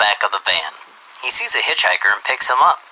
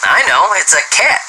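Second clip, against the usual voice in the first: higher, eager call-out without much volume; eager kid's yell; 9 semitones higher than usual. A narrator's reading. Johnny calling out the answer to his teacher. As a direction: pipe up like a keen first grader. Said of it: "yelled little Johnny".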